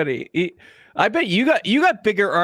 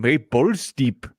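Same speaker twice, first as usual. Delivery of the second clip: slow, drawn-out name call; announcing a name; 3 semitones lower, slower than usual. Shown as a demonstration. To the podcast crew, announcing a viewer's name slowly. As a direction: savor the name like a title. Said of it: "Indian name".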